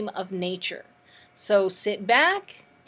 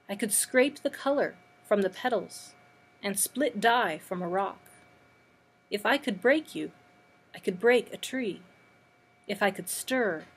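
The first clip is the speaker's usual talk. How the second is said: spare recital in short, separated phrases; poetry reading. Acted. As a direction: let each short line stand alone between pauses. Reads an imagist poem.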